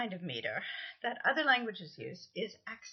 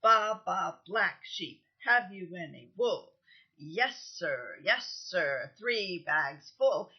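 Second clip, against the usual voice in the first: beats marked, slowing at the end; stressed nursery rhyme; 3 dB louder, slower than usual. Shown as a demonstration. Teacher chanting a nursery rhyme to show its stresses. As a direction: tap out two beats per line. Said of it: "accentual meter actually in some children's songs".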